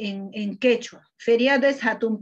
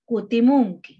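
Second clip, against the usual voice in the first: "Pajarin inti" despacio, sílaba por sílaba; dícta la frase en quechua con calma; lento y claro; slower than usual. Shown as a demonstration. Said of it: "Acá". (lectura lenta de la frase en quechua)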